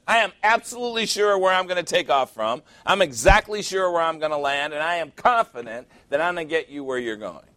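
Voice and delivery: lightly voiced pilot, sure and steady; a touch of a pilot who knows exactly where he's going; confident pilot. Shown as a demonstration. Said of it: "a pilot who's talking like this".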